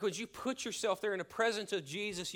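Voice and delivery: ordinary delivery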